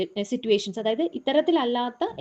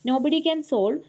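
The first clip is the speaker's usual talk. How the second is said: slow example read; much slower than usual. Shown as a demonstration. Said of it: "അങ്ങനെയാണ് ഈ sentence".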